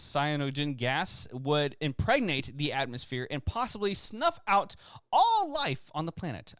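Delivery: badly faked French accent; lightly put-on French quote reading. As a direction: attempt a French accent, not convincingly. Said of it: "I can't do French accents".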